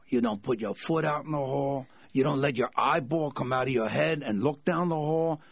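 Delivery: a hint of a menacing mob heavy; goomba bodyguard. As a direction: warn him off like a no-neck bodyguard. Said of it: "here comes the goomba again".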